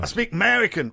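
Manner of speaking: cartoonish American hillbilly voice; hillbilly American accent. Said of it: "Full, full hillbilly".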